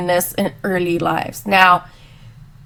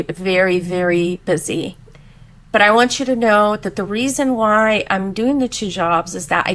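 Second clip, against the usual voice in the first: soothing mom. Retold or imitated. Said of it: "my reaction was".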